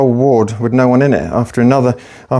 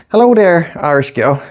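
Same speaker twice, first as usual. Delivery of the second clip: friendly greeting; 3 semitones higher than usual. Retold or imitated. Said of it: "when the head nurse came".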